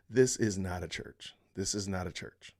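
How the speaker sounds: "this is not a church" said firmly, then repeated; emphatic. Real, not acted. Commentator judging the congregation, emphatic on "not a church". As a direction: state "not a church" as a firm verdict, falling at the end. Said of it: "Just gonna say that emphatically".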